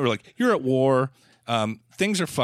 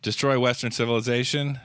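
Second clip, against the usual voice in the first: mock isis recruit. Mock jihadist complaining to isis.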